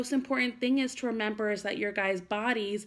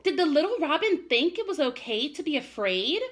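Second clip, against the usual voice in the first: higher, worried small voice; worried child; 7 semitones higher, 3 dB louder than usual. Acted. Worried Chester asking his mother, a touch anxious. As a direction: ask it anxiously. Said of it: "Chester looked very worried".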